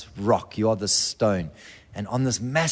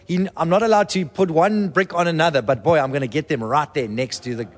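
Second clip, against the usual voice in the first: a hint of an eager, excited king; eager David; 3 semitones higher than usual. David gathering bricks for his son, lightly voiced eagerness. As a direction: play David itching to help build.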